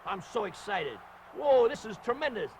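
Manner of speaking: excited ringside gushing; all excited. Real, not acted. Commentator jumping in his chair, all excited. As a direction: gush in short, punchy bursts of delight. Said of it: "I'm getting all excited".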